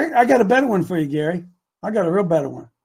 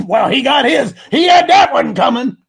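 mock gloating onlooker; 3 semitones higher, 5 dB louder than usual. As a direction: crow it like someone pleased at another's downfall. Voicing a gloating, spiteful onlooker.

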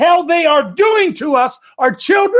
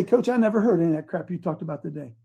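mock churchgoer; 8 semitones lower, 8 dB quieter, faster than usual. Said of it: "you say".

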